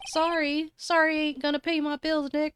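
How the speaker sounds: mock-offended whine about money; indignant complaint. Larry complaining to Nick.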